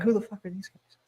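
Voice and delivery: a hint of a thick British accent, quietly; imitating a posh British accent under the breath; lightly done British accent; mock British accent. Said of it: "in the thickest British accent".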